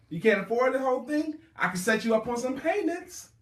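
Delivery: high, loud, pushy sales offer; mock salesperson pitch. Mimics a salesperson's payment pitch.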